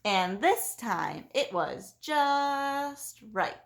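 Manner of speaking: very slow, satisfied close; storybook ending. A narrator's reading. Teacher ends the story, very slow finish. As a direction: land the last line slowly.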